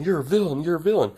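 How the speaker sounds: hammed-up, insistent name-calling; retold accusation. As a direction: imitate a kid calling someone out. Acted repeated accusation in fight.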